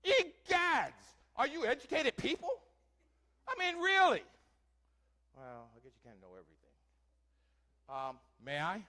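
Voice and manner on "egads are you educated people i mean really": loud, high, hammed-up indignant gasp; booming theatrical huff; mock outrage. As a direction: play scandalised at the crowd. Mock shock at audience ignorance.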